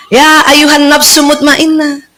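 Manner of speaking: slow, tender calling voice; sweet angel's call. Pretend. Angel calling the peaceful soul, slow and tender. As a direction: call the soul gently and slowly. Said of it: "Malaikat manggilnya enak".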